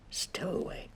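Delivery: a soft, breathless surprised echo; hushed surprise with a rising end. A narrator's reading. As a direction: repeat the word in quiet astonishment. Mrs Brown surprised question.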